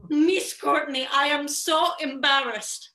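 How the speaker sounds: lightly imitating a Jewish accent; mild Jewish accent, drawn out. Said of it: "what I imagine her Jewish accent sounded like".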